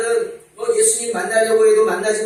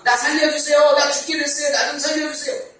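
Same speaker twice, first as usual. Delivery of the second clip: mock pleading; 7 semitones higher than usual. Imagined desperate plea.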